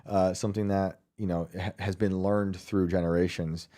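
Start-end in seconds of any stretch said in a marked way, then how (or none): none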